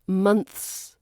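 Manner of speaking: "months" with th then s; full THS cluster. Shown as a demonstration. Teacher giving the target before the French error, clear th in "months". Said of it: "Some common struggles".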